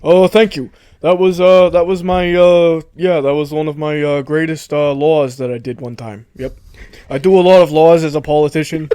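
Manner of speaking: halting politician impression; Bernie Sanders. Politician guest thanks an admirer, halting impression. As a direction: accept praise with hesitant politician bluster. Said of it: "Oh, Bernie".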